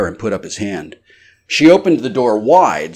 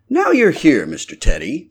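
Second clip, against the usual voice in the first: high, eager innkeeper's wife; landlady voice; 8 semitones higher, 3 dB louder than usual. A narrator's reading. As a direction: pitch her up as the fussing landlady.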